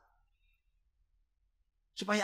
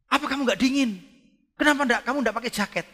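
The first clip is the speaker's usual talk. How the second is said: concerned question; 10 semitones higher, 7 dB louder than usual. Retold or imitated. Pastor quoting his own concern.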